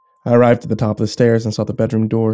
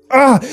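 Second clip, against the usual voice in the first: pained cry; 6 dB louder than usual. A narrator's reading. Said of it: "I exclaimed".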